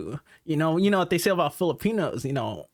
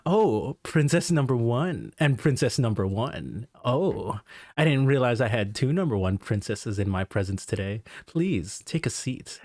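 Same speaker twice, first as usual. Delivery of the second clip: lightly voiced smooth host, lower and slowing at the end; charming host; 5 semitones lower than usual. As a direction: flatter two guests at once, unhurried. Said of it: "I gotta riz them all up".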